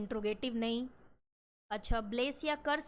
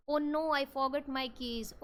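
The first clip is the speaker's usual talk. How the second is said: regretful exclamation; much slower than usual. Shown as a demonstration. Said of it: "ये आप regret feel कर रहे हो".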